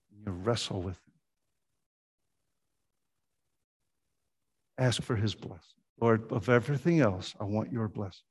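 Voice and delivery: low, hushed and intimate; hushed prayer. Acted. Preacher to congregation about private prayer, hushed. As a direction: draw the room into a quiet prayer.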